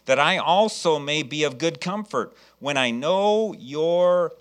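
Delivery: slow, measured Bible reading; solemnly paced pulpit recitation; scripture reading. Real, not acted. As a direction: read the verse deliberately, stretching the last words. Reads Bible verse aloud.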